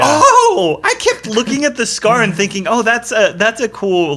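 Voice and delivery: laughing. Real, not acted. Laughing at own missed clue.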